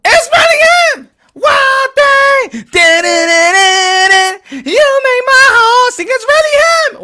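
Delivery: high, loud screaming fan; hammed-up overjoyed shout, half-sung in the middle; ecstatic fan. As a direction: lose it like a fan seeing his hero. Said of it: "the guy goes".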